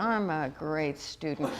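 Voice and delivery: slow, low and soft, each word stretched; drawn-out affirmation. Shown as a demonstration. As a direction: savor the line slowly for a laugh. Repeats affirmation comically, audience laughs.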